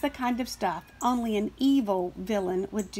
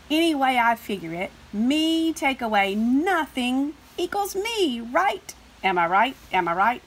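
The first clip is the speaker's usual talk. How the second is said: smug number; 3 semitones higher, 5 dB louder than usual. Acted. Another smug number character.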